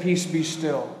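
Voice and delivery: calm command. Retold or imitated. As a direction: quietly still the storm. Jesus calms the storm, first telling.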